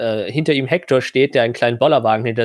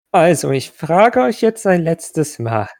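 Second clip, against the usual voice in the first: stern NPC voice; 4 semitones higher than usual. Acted.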